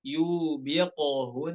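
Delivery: slow "Yubiquhun" with a bounced qaf; qalqalah. Shown as a demonstration. Teacher showing the qalqalah. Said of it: "qalqalah huruf qaf".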